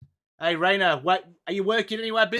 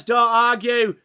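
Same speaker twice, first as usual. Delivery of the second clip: mock quote; 5 semitones higher, 8 dB louder, slower than usual. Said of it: "Steely Green says".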